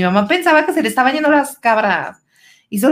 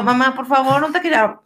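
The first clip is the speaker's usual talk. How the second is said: retold pleading; 4 semitones higher, faster than usual. Acts out pleading with mom.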